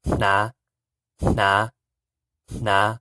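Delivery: "na" with nasal puff before N; teacher saying the word for wear; Hmong hnav. Shown as a demonstration. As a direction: stretch out "na" clearly. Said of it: "which is".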